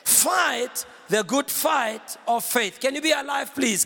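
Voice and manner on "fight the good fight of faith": "Fight" drawn out, weighty; lower, half-speed emphatic scripture quote; slow recitation. Shown as a demonstration. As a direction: lead the congregation slowly, word by word. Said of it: "Can you say it with me?".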